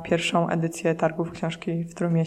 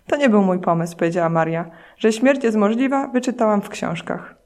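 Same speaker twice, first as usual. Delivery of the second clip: reading a novel passage aloud, lightly voicing the dead characters; steady narration with a hint of dialogue voices; story reading. Reads a book fragment aloud.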